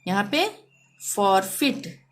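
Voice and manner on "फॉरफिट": फॉरफिट with a short vowel in फिट; careful model फॉरफिट. Shown as a demonstration. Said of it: "यहाँ पे ई का हो रहा है".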